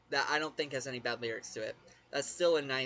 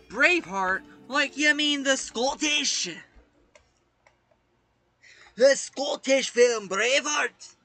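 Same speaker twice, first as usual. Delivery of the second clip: surprised; 10 semitones higher, 12 dB louder, slower than usual. Real, not acted. Reacting to the password Braveheart.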